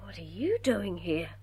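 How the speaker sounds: breathless, unvoiced whisper; shocked whisper. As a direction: gasp it out in shock. Shocked at the unexpected visitor.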